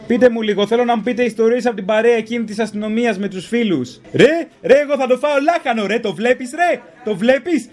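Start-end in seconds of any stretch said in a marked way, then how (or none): 4.1-7.7 tough cop. Pretend. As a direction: play a bullying cop showing off. Mocks cop boasting on radio. (απειλητικός μπάτσος, παρωδία)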